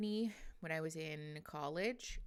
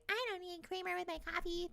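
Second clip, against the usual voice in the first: mocking quote; 12 semitones higher than usual. Mocking her old self.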